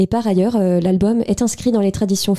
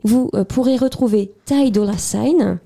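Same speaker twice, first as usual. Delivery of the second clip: English accent. Shown as a demonstration. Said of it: "avec mon accent anglais également de qualité".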